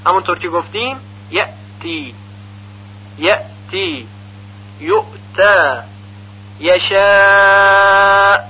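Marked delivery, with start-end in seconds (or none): 1.3-8.4 clean tight stops in یأتی and یؤتا, no echo; hamza with firmness. Shown as a demonstration. Teacher showing how famous reciters read, firm unbounced hamza. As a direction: shut the hamza firmly, long aa in یشاء.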